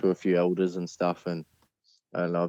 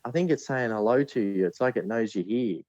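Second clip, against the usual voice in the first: put-on eager little girl, higher pitched; lightly voiced little daughter; 5 semitones higher than usual. Father retells daughter's eager words, lightly voiced. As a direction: stumble in as an excited small kid.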